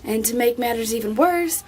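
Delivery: high, squeaky disbelief; incredulous. Retold or imitated. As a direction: ask it in wide-eyed shock. Retold incredulous self, high voice.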